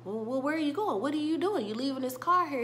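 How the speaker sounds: a friend left baffled in the car; lightly voiced surprise; mock confusion. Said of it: "Shy's just like".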